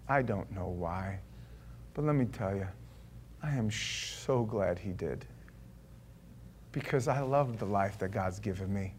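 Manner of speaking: soft, sincere testimony; quiet sincere confession. Real, not acted. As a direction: speak it gently and honestly.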